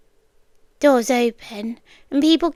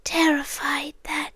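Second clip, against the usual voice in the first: whispered; 6 dB quieter than usual. Acted. Voice drops after outburst.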